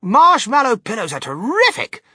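high, excited shout. A narrator's reading. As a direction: holler with delight. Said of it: "shouted Mister Wonka".

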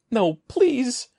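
high, panicked pleading scream; terrified scream. A narrator's reading. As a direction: scream it in terror. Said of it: "Evan screamed".

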